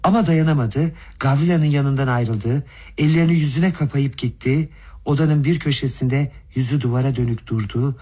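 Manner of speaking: usual speaking voice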